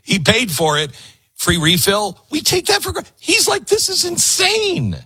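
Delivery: high, amazed retelling of his disbelief; incredulous mock. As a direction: voice him high and stunned. Mocking incredulity retelling Italian.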